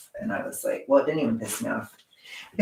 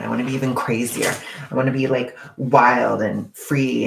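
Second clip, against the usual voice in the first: mock wild excitement; 5 dB louder than usual. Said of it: "I'm just kidding".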